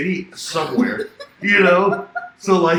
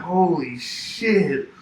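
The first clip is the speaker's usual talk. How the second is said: drawn-out astonishment; 3 semitones higher, much slower than usual. Retold or imitated. Acted reaction to being kicked out.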